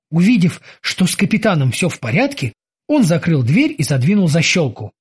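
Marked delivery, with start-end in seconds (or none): none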